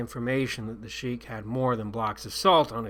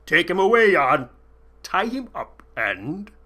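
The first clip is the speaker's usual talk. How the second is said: shouted command, higher and louder; sheik's loud order; 6 semitones higher, 8 dB louder than usual. A narrator's reading. Sheik ordering his guard, loud and higher.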